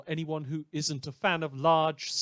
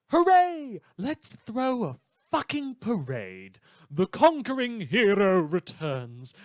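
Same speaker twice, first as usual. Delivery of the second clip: mock triumphant whoop, much higher and louder, then slower; sarcastic cheer; 6 semitones higher, 7 dB louder, slower than usual. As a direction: fake celebration dripping with sarcasm. Sarcastic cheer over hero's return.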